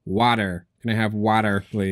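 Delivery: put-on American accent, flat r in water. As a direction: order it with a forced American accent. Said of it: "put on an American accent".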